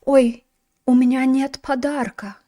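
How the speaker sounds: a hushed mock apology at a date; mock date line. Teacher acts a clumsy date excuse, mock sheepish. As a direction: play the sheepish empty-handed date. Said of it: "show up to a date ... and say".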